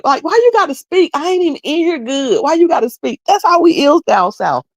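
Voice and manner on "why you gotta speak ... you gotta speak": mock annoyed newcomer. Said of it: "you were saying when people walked in".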